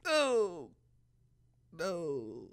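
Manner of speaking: very high, loud, near-crying panic; panicked screaming. Real, not acted. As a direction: shriek repeated refusals in a frantic stream. Panicking as monster attacks.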